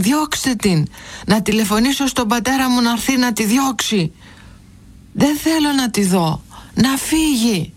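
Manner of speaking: put-on agitated, high-pitched boy's outburst without real volume; shouting angrily. A narrator's reading. Angry pupil pleading with the headmaster to send a woman away, mock shouting. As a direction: insist in high, sharply falling bursts, upset and demanding. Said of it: "πλησίασε το διευθυντή φωνάζοντας".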